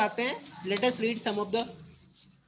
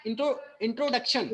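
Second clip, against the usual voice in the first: "introduction" split, intro and duction weighted alike; equal stress; much slower than usual. Shown as a demonstration. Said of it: "इंट्रो भी उतना ही emphasise कर रहे हैं". ("introduction" के दोनों हिस्सों पर बराबर ज़ोर)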